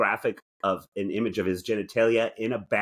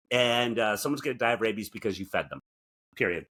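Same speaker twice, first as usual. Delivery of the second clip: PSA; 4 semitones higher than usual. Acted. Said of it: "I'm gonna do my P S A".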